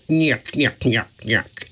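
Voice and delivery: nyuk nyuk. Acted. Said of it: "He made funny sounds".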